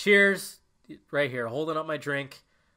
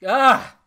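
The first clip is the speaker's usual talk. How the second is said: choked-up cry; 9 semitones higher, 11 dB louder than usual. Real, not acted. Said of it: "Getting fucking choked up".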